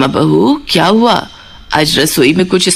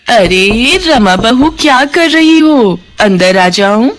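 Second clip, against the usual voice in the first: syrupy call; 2 semitones higher, slower than usual. Acted. Scheming aunt calling daughter-in-law Rama, slow sugary call. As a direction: draw it out sweetly to lure her in.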